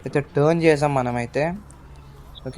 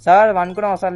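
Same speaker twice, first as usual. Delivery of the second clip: louder, higher teasing question; loud teasing call; 4 semitones higher, 6 dB louder than usual. Acted. Driver teasing the game passenger, loud and higher. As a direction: call it out to tease him.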